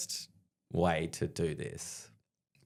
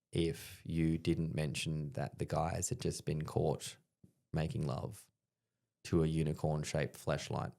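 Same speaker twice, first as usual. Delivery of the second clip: confiding undertone; 3 semitones lower, 6 dB quieter, slower than usual. Retold or imitated. Officer quietly confides the scandal.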